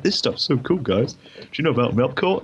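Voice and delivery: put-on high, loud eager child; excited kid voice. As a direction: gush like a young fan. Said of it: "I was like".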